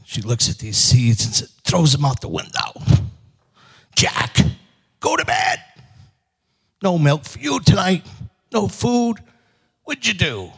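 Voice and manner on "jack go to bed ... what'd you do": high, tense scolding of a son; angry mother. Acted. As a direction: send him to bed crossly in a high, strained voice. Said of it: "She's angry. She's mad. She's upset".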